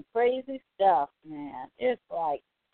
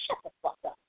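high, fast, dismissive; exasperated, higher and rushed; fed-up outburst; 6 dB quieter, faster than usual. Real, not acted. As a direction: spit it out fast and high, then drop off. Annoyed rant at the audience.

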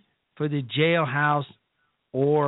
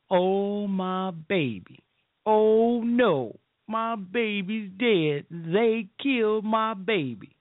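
a higher, slow, hammed-up mother's wail; mock bawling mother; 4 semitones higher, much slower than usual. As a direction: mockingly imitate a grieving mother. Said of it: "and she's crying and bawling".

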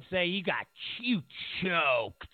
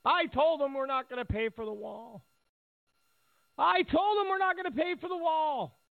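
high mock-proud voice, repeated higher; a hammed-up boast; mocking the Mexican president; 10 semitones higher than usual. Mocking the Mexican president's boast, in a high put-on voice. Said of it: "the Mexican president said".

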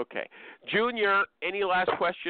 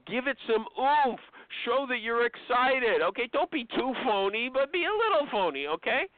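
higher, upbeat boss advice; Richie's advice; 5 semitones higher than usual. Retold or imitated. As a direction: coach with some oomph. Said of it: "He says".

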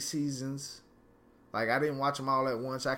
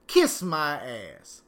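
slow angry dismissal; 4 dB louder, much slower than usual. Real, not acted. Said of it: "I am angry".

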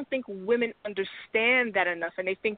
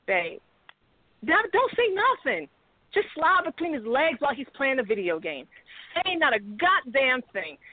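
seductive wife; 4 semitones higher than usual. Retold or imitated. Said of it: "as opposed to".

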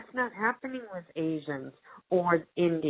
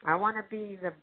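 mock demanding audience; 3 semitones higher than usual. Host imitating Latino audiences demanding representation, mock indignant. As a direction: voice the fed-up moviegoer making demands. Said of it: "you know, saying".

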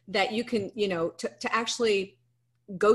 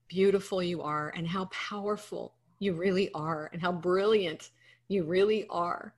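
emotional crying. Real, not acted. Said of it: "I'm sorry, I'm crying".

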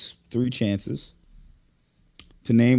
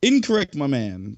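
game show buzzer; 2 semitones higher than usual. Pretend. Game host ruling an answer wrong.

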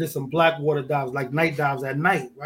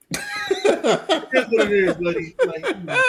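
laughing; 7 semitones higher, slower than usual. Real, not acted. Laughing, slow amused remark.

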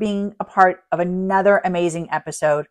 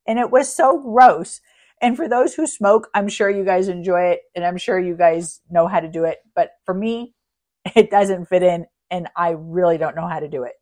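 can't keep a straight face about it; amused disbelief breaking through the words; laughing; 4 dB louder than usual. Real, not acted. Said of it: "I just couldn't stop laughing".

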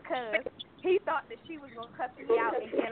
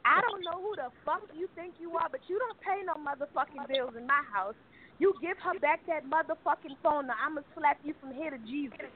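retold cussing out; 4 semitones higher than usual. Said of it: "she blasts on him".

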